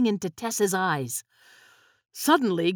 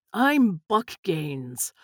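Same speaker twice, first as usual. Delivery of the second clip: a hint of a slow, lower villain; understated sinister newcomer; lightly voiced smooth stranger; 3 semitones lower, much slower than usual. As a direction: introduce himself slowly and deliberately. Buck introduces himself.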